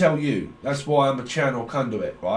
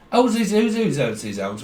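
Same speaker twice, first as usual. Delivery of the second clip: put-on Scouser accent; 4 semitones higher than usual. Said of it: "a Scouser".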